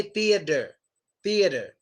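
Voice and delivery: "theater" said like "thee-uh-der"; American flapped T. Shown as a demonstration. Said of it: "in American English, we say".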